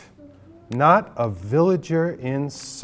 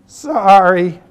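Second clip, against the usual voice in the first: goat voice; 7 semitones higher, 4 dB louder than usual. A narrator's reading. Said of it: "she said".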